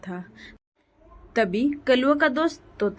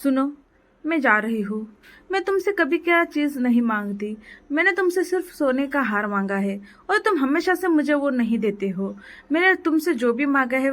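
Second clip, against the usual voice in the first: nagging wife threatening to leave; quarrelsome wife; 3 semitones higher than usual. Acted. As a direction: scold him and storm out.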